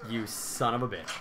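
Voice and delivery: soft, low whispered insult; whispered curse. Real, not acted. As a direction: hiss it in disbelief. Partner died in game.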